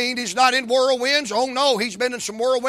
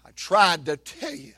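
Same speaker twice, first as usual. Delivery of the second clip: the devil taunting. Retold or imitated. The devil lightly mocks Martha and Mary. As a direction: taunt like a mild mocking tempter. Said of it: "Something like".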